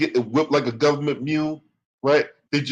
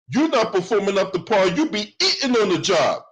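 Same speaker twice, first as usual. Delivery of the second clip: higher, punchier turnaround; pitched-up accusing comeback; louder retort; 5 semitones higher than usual. Real, not acted. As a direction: throw her words back at her. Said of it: "turning it back on her".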